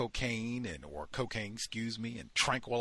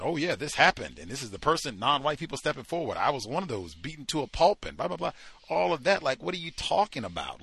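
heated outrage; 5 semitones higher, 7 dB louder than usual. Real, not acted. Rising outrage over Fuhrman minimizing.

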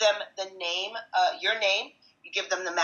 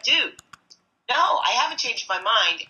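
exasperated; 6 semitones higher, 5 dB louder than usual. Retold or imitated. Refusing the buyer again, exasperated.

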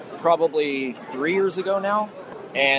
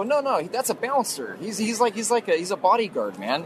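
higher-pitched protesting; retold protest, sure they are mistaken; insistent denial; 6 semitones higher than usual. He insists to friends it's a bouncer, protesting.

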